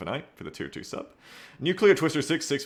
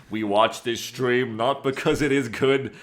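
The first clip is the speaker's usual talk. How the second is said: chat quote read out; slower than usual. Retold or imitated. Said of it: "S W F says".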